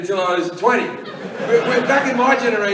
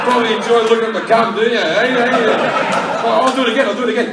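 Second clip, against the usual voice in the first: mocking smug bloke; faster than usual. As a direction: gloat at the others like a smug winner. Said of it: "where he's just like".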